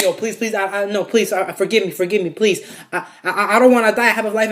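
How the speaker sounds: stammered mock begging; imitated panicky plea, rising in pitch; pleading. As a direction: act out begging for your life. Man begging at gunpoint, acted out.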